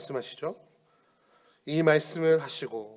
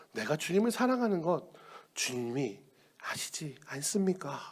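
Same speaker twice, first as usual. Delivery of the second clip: hesitant reply; 6 dB quieter than usual. Acted. Peter answers hesitantly.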